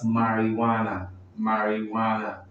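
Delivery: marijuana said with a "wah-na" ending; model pronunciation. Shown as a demonstration. Teacher showing how the next word is pronounced, careful model of marijuana. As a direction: say "marijuana" evenly, the j as a w. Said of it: "The next word is pronounced".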